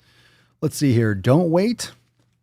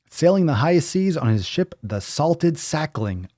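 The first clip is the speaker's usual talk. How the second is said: grand announcement; 6 semitones higher than usual. Acted. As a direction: announce it like an epic title. Hyping up a pirate title.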